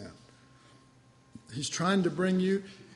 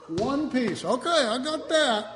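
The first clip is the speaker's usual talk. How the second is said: higher, laughing over a small win; amused relief; 6 semitones higher than usual. Retold or imitated. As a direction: chuckle at getting one piece.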